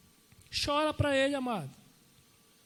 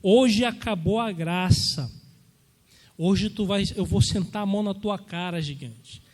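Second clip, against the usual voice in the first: defiant challenge; 3 semitones lower, 3 dB louder than usual. Retold or imitated. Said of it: "aquele jovem desafiando".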